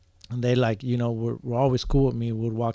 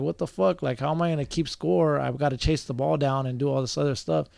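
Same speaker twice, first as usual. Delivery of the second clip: retold mad complaint; 3 semitones higher than usual. Overworked scorekeeper protests to himself, retold annoyance. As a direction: replay your indignant protest, mildly heated. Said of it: "I was getting mad".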